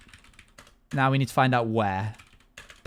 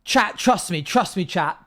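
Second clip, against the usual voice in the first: imitating Robert; 4 semitones higher, slower than usual. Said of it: "Robert immediately went from".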